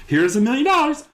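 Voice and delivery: loud, very high proclamation; mock grand announcement. Mocking zoo people handing over the check, mock grand.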